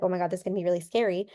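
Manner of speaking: rushed, nervous babble; imitating a panicked speaker, quick; mock panic. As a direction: gabble it out like you're freaking out. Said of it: "you're freaking out".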